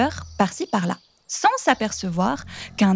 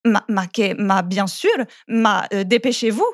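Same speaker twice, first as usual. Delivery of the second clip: ogre stammering, tripping over his words. Acted. Flustered ogre stammers at the girl who wants to undress. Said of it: "L'ogre bafouille".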